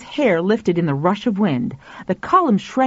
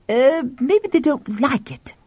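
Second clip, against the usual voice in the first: man voice; 6 semitones higher than usual. Acted. Tuffy voiced.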